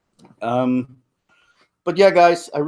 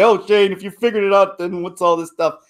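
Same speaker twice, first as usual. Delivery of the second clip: high, loud imitation of a doubter; mock challenge; 8 semitones higher, 4 dB louder than usual. Imagined viewer questioning his discovery, high loud mock challenge. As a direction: heckle yourself in a raised, pitched-up voice.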